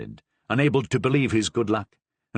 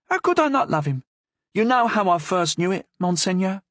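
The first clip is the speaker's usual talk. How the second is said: put-on lively young woman, higher, with a Languedoc accent; 8 semitones higher than usual. A narrator's reading. Madame Cavrois answers the Cardinal boldly, Languedoc accent. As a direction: bold Languedoc lilt, nose in the air. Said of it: "with a strong Languedoc accent".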